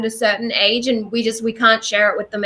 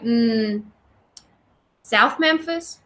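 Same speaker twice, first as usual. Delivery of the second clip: imitated Southern accent; much slower than usual. Unconvinced Clarksdale man guesses once more, imitated Southern accent. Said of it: "that was a terrible impersonation".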